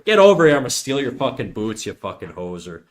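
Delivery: hammed-up redneck Canadian accent, mock threatening. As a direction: pick a fight like a hoser in a redneck Canadian accent. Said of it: "I could do, like, redneck Canadians".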